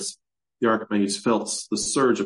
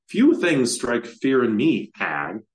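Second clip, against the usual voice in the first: scornful retort; 3 semitones higher, 3 dB louder, slower than usual. Acted. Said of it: "Kazan scoffed".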